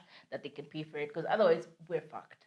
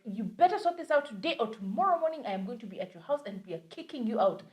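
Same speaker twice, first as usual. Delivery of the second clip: angry landlord; 3 semitones higher than usual. Retold or imitated. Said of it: "She was actually angry".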